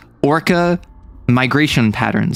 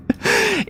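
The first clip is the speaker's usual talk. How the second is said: laugh; 4 dB quieter than usual. Real, not acted. Laughs at the maid joke.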